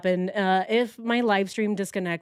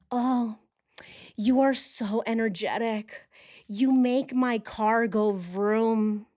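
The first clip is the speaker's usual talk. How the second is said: mocking love letter; slower than usual. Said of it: "the actual love letters that he sent to her".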